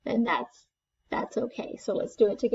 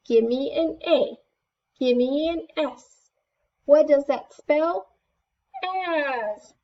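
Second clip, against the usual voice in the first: high, bouncy cheer chant; cheerleader; 3 semitones higher than usual. Shown as a demonstration. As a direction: cheer it out like a pep squad. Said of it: "like a cheerleader".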